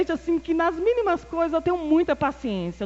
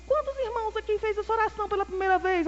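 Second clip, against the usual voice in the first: pastor's call; 9 semitones higher, 3 dB quieter, faster than usual. Retold or imitated. Pastor's altar call retold.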